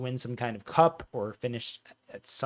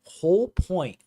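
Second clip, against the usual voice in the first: put-on "Whole point" in an overdone English dialect accent, higher and louder, "point" near "pint"; butchered English dialect accent; 5 semitones higher, 4 dB louder, slower than usual. Fan on stream repeats his phrase in a hammed-up English dialect accent. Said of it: "weird English dialect accent that's being just butchered".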